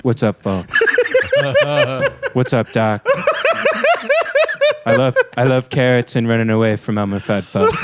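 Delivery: lightly voiced Trump as Bugs Bunny; deadpan, deliberately lame cartoon-politician mash-up; a hint of a politician impression; Donald Trump. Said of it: "what if Donald Trump was, uh, Bugs Bunny?".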